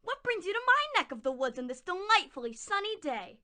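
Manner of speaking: sweet-talking wolf voice, breathy hello; wolf playing friendly; sly big bad wolf. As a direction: lure the little one in like a smooth-talking wolf. Wolf greets Little Orange Cowboy Hat.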